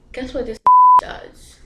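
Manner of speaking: high, laughing tease; laughing question. Real, not acted. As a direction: giggle through the question as you set up the twist. Laughs while teasing the twist.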